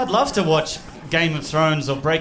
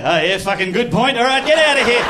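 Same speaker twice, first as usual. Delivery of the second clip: laid-back Aussie cop; 7 semitones higher than usual. Retold or imitated. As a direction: let the driver go with a jolly high shoo. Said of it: "And they go".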